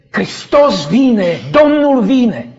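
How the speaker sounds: joyful yell. Retold or imitated. Dreamer yelling with all his strength in the dream, loud call. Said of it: "Eu urlam cât mă țineau puterile".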